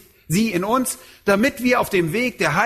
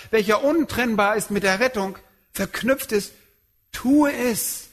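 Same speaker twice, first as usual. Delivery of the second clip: prayer voice; 7 semitones higher than usual. Acted. Paulus' prayer voiced by preacher.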